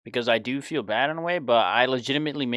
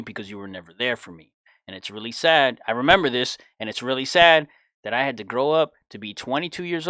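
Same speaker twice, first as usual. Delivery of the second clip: raised, heated voice telling off his father; angry confrontation; 6 dB louder than usual. Retold or imitated. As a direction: let the years of resentment burst out loud. Confronting absent alcoholic father.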